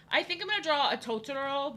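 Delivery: Totoro in an odd, accidental accent; weird accent. Real, not acted. Streamer announcing her next drawing, weird accent. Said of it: "like, a weird accent".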